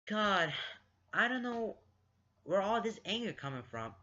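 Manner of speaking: high, loud burst of real exasperation; exasperated rant. Real, not acted. Reader breaks off the story to rant about Lance, exasperated. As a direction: vent your bafflement at the character. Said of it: "put this into this rant".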